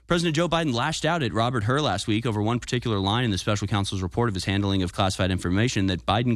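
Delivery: ordinary talk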